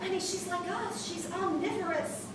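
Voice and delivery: soft, slow comforting voice; reassuring. Acted. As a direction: soothe a worried child gently. Mother soothes child on phone.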